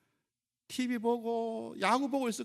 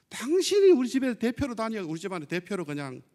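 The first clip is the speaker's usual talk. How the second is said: acted husband's retort; 7 dB louder than usual. Husband refusing wife's invitation to church, acted retort. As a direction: play a fed-up husband pushing back loudly. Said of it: "남편이 뭐라 그러는 줄 아세요".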